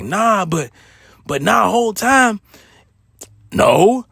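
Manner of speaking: a worried man talking his way out of trouble. Retold or imitated. Assistant manager on the phone to the big boss, worried and defensive. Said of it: "my quote unquote boss talk like this, like, worried".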